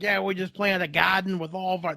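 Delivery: put-on a light Boston accent with broad A's. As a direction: quote the buddy in a hint of Boston accent. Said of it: "he's got the, you know, the A's".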